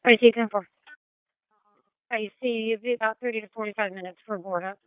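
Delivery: crackly two-way radio; police radio. Real, not acted. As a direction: dispatcher over the radio. Dispatch answering over radio.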